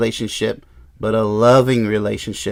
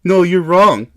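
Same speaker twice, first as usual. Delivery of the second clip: mock argument; 4 semitones higher, 3 dB louder, slower than usual. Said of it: "Let's argue about this stuff".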